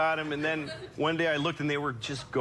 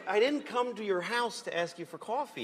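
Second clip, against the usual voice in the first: indignant customer; 4 semitones higher than usual. Retold or imitated. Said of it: "I'm like".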